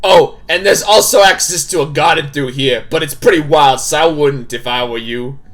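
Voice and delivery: put-on game character voice, stern hostess; firm, projected character voice; Tabitha. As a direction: play a bossy hostess laying down house rules. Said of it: "I gotta do my Tabitha voice".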